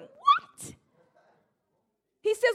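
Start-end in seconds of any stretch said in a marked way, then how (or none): 0.0-0.7 high-pitched incredulous "what?"; shocked disbelief. Acted. Preacher reacting to being told the cost, shocked disbelief. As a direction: blurt it out in rising disbelief.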